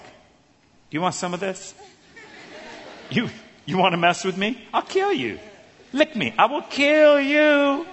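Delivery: high, far-off tough-guy frog daring the snake; tough-talking frog. Acted. Frog taunting the snake, high tough-guy voice. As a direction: bluster like a tiny frog picking a fight. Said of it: "And the frog is like".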